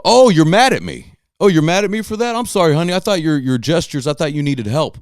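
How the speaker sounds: high-pitched mock realization, easing down; feigned innocent surprise. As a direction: act oh-so-innocently taken aback. Mock surprise at angry driver.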